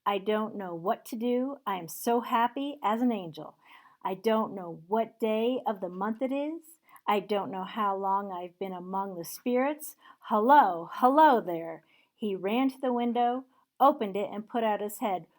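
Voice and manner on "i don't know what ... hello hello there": giddy, loud and bright; overjoyed. Acted. Scrooge waking up overjoyed, calling out the window. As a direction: bubble over with joy, calling out hello.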